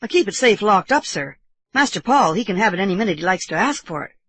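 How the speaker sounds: a hint of respectful servant; lightly voiced deferential servant. Servant accounting to sir for money, lightly deferential. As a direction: assure him respectfully, lightly in character. Bassett reassures the uncle.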